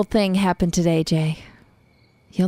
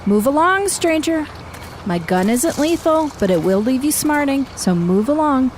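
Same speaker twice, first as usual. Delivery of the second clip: raised, commanding warning; stern warning; 5 semitones higher than usual. Acted. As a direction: warn off a stranger in the dark. Warning off intruder with gun.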